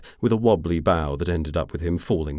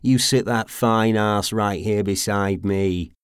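high, loud, cocky rogue voice; leering invitation across the bar; lairy flirt; 7 semitones higher, 7 dB louder than usual. A narrator's reading. Dean calls out to the stranger, cocky and leering.

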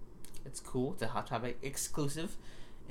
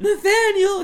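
shocked mother yelling his name, much higher and louder; scandalized mom; 15 dB louder, slower than usual. Retold or imitated. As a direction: call him out like a horrified mom. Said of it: "And my mom's like".

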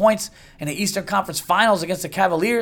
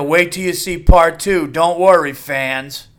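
louder, slow mock-promotional actor voice; 5 dB louder, slower than usual. Mocking movie actors promising fans a sequel, slow and smug. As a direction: tease the sequel like a smug star. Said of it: "I love how the, you know, the actors".

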